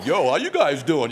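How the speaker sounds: mock breezy hello, tossed off in passing; casual passer-by. Preacher imagining Jesus passing the boat, mock casual greeting.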